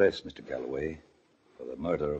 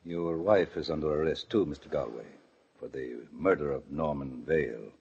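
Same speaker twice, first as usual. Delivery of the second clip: soft, low, grave announcement; very quiet; 6 semitones lower, 7 dB quieter than usual. Acted. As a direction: break the charge to him quietly. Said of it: "he said it very quietly".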